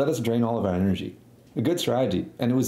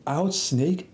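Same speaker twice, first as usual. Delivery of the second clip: higher-pitched retold holler; mock yell; 4 semitones higher than usual. Kid leaving the room at camp, mock yelling. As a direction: imitate yelling at everyday volume.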